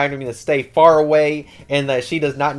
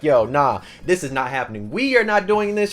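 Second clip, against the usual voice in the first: lightly acted indignant objection; retold freak-out; 2 semitones higher than usual. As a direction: imitate someone refusing in a fluster. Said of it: "Darkness is freaking out".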